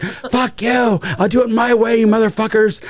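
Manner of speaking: high-pitched defiant retort; imitated angry defiance. Director answers studio executives, imitated angry defiance. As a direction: act out a director telling off the studio.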